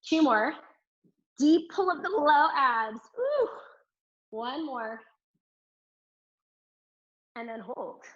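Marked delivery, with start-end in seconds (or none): 3.2-3.5 quick high "ooh" of exertion; short, high-pitched puff; effortful ooh. Real, not acted. Effort during deep ab pull.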